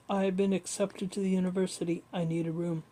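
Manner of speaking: lightly voiced Dutch accent; a hint of a deep Dutch accent. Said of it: "in his deep Dutch accent".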